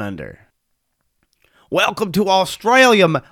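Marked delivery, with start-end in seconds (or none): 1.7-3.2 loud, hammed-up Australian accent attempt; bad Australian accent. Shown as a demonstration. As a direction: badly fake a broad Australian welcome. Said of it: "I can't do an Australian accent".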